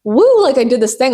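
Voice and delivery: high mock whoop of triumph; a high, hammed-up celebration; mock cheer. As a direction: cheer like you just won. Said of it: "I'm not like".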